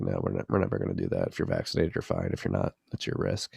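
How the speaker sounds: imitating a politician. Quoting Cuomo on vaccine passports.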